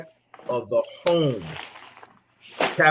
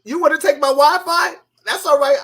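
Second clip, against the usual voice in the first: mock kid; 12 semitones higher, 6 dB louder than usual. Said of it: "kids be like".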